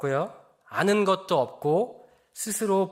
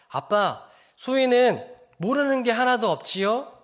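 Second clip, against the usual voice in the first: put-on confident child; 6 semitones higher than usual. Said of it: "그러면서 자신 있게 말해요".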